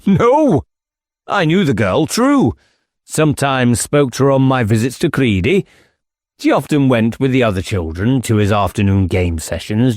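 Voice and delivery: squire's high, agitated protest; a rattled squire blustering his denial; flustered squire denying. Acted.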